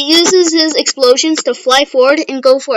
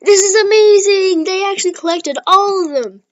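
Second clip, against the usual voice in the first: much higher, louder amazed commentary; ecstatic announcer; 8 semitones higher, 4 dB louder than usual. Retold or imitated. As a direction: hype the crowd like a stadium announcer. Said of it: "The announcer lady's like".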